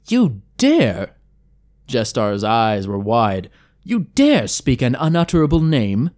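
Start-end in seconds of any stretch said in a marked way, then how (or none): 0.1-1.2 sharp, higher outraged challenge; a stunned, offended demand. A narrator's reading. Elf outraged at forbidden name. 3.8-6.1 higher, indignant question; scandalised by the forbidden name; outraged. A narrator's reading.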